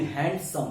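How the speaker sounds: हैंडसम split into two beats; two syllables. Shown as a demonstration. Teacher showing students the syllable count, हैंडसम in two beats. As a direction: say हैंडसम as hand, then some. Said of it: "दो syllable है".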